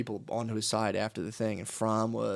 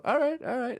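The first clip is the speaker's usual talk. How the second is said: imitating Bannon; 12 semitones higher than usual. Bannon shrugging off laughing crowd.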